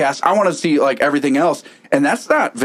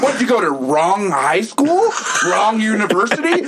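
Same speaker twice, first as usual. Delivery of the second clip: laughing heel taunt; 8 semitones higher than usual. Pretend. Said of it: "If I'm a heel".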